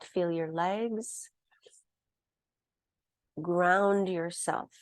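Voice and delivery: unhurried grounding guidance with long pauses; soothing yoga-teacher voice, leaving room to breathe; guided meditation. Real, not acted. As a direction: guide them gently into the body, phrase by phrase.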